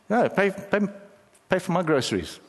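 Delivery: mock a pushy customer pressing the point; demanding big guy. Big guy pressing a stranger to pay groceries, demanding.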